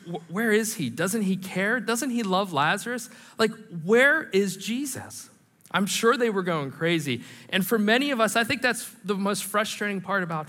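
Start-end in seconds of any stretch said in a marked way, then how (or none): 0.1-5.3 anxious pleading questions, pitched higher; desperate prayer. Retold or imitated. Sisters waiting for Jesus, desperate pleading questions. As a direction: cry out like a frantic sister waiting. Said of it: "put yourself in Mary and Martha's desperate prayer".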